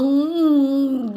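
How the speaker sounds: drawn-out seething "mm"; long mock growl of exasperation; imitated seething. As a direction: mimic someone straining with pent-up irritation, stretched out. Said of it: "gigigil na eh".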